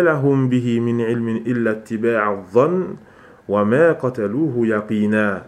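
quick, measured Arabic recitation; Quran recitation. Real, not acted. Teacher quoting Allah's words to his students, Quran recitation. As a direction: recite the verse in an unbroken, even flow.

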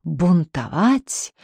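stretched out, slow, threatening bark; slow barking menace. Acted. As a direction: drohend gedehntes Bellen. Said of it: "новым лающим голосом закричал".

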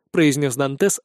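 usual speaking voice

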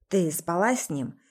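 ordinary delivery, nothing marked

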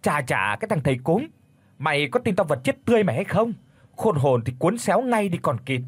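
fast, high angry yell; shouting at the exorcist. Acted. Liên yelling at the exorcist, furious and fast. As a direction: snap furious threats at the shaman. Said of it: "mà quát".

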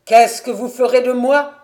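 loud, high demanding question; crying out. A narrator's reading. Crippled elder son asking what becomes of him, crying out. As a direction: shout the question, pitched high. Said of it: "cria-t-il".

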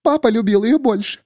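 high, broken woman; tearful hush. A narrator's reading. Miriam crying to the narrator, high broken. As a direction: say it through tears. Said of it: "Её голос стал почти неслышимым".

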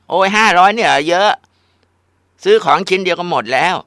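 high, loud, exasperated whine; scoffing whine. Acted. Spoiled daughter scoffs at her mother's question, loud whine. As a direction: roll your eyes at mom out loud.

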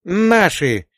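high happy cry; joyful shout. A narrator's reading. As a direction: shout with girlish joy. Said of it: "радостно крикнула Рута". (радостный крик)

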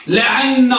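لعن with a held, doubled n at the end; teacher's demo of لعن, geminated n; doubled noon. Shown as a demonstration. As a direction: lean on the n in لعن, la-ʿan-na. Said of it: "طبعًا بالنون مشددة".

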